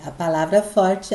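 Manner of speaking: usual speaking voice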